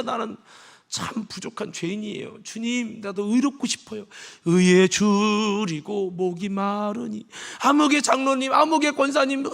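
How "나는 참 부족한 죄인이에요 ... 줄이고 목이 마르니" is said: softer, slow pleading to the Lord; earnest humble prayer. Retold or imitated. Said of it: "진짜". (낮고 간절하게 드리는 기도)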